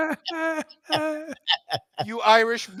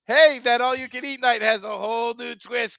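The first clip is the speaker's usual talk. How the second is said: laughing mock pitch. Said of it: "Is that the Marlins saying".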